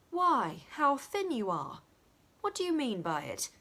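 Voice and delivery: startled at how thin she is; Dick, surprised. A narrator's reading. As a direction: Dick exclaiming at the starving maid.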